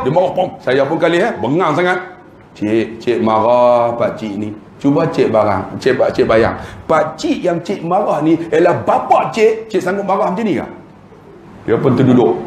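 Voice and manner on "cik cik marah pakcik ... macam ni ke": gentle rebuke. Retold or imitated. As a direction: calmly make her picture her own father. Penceramah menegur kerani dengan lembut. (teguran lembut kepada kerani, perlahan dan ikhlas)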